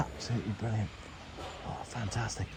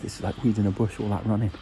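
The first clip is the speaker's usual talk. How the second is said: out of breath; 4 dB louder than usual. Real, not acted. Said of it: "I'm absolutely shattered".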